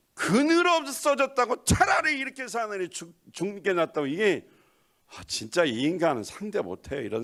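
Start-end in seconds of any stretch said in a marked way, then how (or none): 0.1-4.1 mock-whining Jonah, pitched high; lightly acting out a sulky prophet; whiny Jonah. Preacher mocks Jonah's death wish, whining high.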